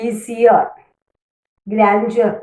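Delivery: ഈസിയർ, ഗ്രാൻഡ്യർ, each stressed at the start; first-syllable stress. Shown as a demonstration. Teacher lists examples, ഈസിയർ, ഗ്രാൻഡ്യർ stressed on first syllables. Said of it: "first സിലബിളിലായിരിക്കും അതിൻ്റെ stress".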